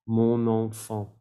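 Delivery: "Mon enfant" slowly as "mo-non-fon"; silent final T. Shown as a demonstration. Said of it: "Sin la T al final".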